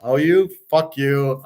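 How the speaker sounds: self-satisfied dismissal; smug told-you-so. Real, not acted. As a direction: brush them off, pleased with yourself. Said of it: "now I'm just smug going".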